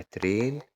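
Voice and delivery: ترين with a long "ay" in the middle. Shown as a demonstration. Teacher repeating the train example, long A in ترين. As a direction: hold the vowel of ترين as "ay". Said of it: "بتتنطق لونج A".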